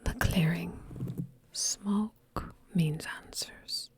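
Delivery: whispered Irish lilt; lightly voiced Irish rogue; Irish accent. Neve urging the party toward the smoke, whispered Irish accent. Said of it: "And Neve says".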